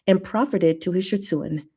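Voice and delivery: reading a fic aloud, lightly performed; story reading. Acted. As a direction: read it like a storyteller. Reads a fanfic aloud.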